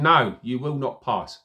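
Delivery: a light, brief East End accent, mildly voiced; hint of a defiant East End accent; mock East End accent. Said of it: "Sorry for the accent".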